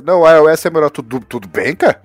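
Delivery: mock shouting. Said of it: "o cara que você grita por telefone".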